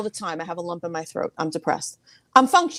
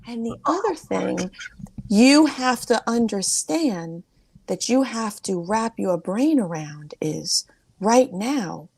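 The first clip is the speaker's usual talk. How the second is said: retold aunt. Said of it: "And she goes".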